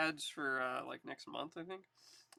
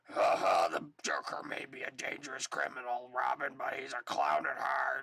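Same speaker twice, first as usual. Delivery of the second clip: completely overdone raspy smoker's voice; 3 semitones lower, 3 dB louder than usual. Reading a comic line after being asked: overdone Christian Bale Batman voice. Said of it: "do your best Christian Bale and completely overdo it".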